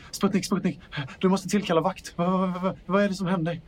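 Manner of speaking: frantic, pleading urgency; panicked character. Acted. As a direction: blurt it out in a panic, tripping over repeats. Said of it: "helt panisk ut".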